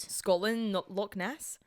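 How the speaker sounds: warming up a Scottish accent. Shown as a demonstration. Co-host asked for the accent, trying out Scottish. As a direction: try it on in Scottish. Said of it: "I can try".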